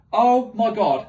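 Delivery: high, loud mock-awed cry; awestruck gasp. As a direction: gasp it out, impressed. Awed at the Admiral's power.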